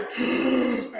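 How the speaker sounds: long, high acted gasp; mock shocked gasp. Onlookers seeing the punches land, mock gasp. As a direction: suck in air in exaggerated shock.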